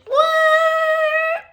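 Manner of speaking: high, loud What?; stunned high shriek; shocked shout. Real, not acted. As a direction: yelp it in disbelief. Shocked outburst.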